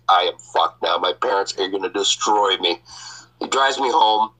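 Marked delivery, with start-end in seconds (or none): 0.1-2.8 defeated. Retold or imitated. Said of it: "Now the attitude is gone".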